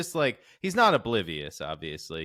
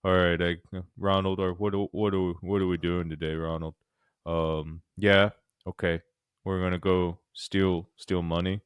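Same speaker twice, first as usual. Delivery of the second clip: dopey Armstrong; 4 semitones lower than usual. Retold or imitated. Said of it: "This is what I imagine him sound like".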